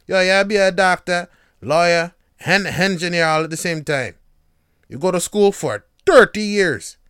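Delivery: loud, high Jamaican parent patois; self-admittedly terrible Jamaican patois. Retold or imitated. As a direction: lecture your kid like a Jamaican parent. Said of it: "My patois is terrible".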